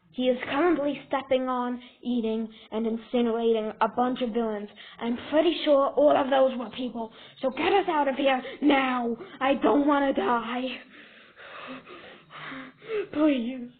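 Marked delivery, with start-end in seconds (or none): 5.0-13.7 panicked pleading. Acted. Acted villain pleading to escape.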